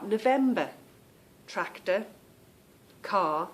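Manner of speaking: "November, tractor, car" with every final R left silent; dropped R. Shown as a demonstration. Listing examples for viewers, "November, tractor, car" without R. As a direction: drop the R ending each of "November, tractor, car". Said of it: "we kind of drop the R".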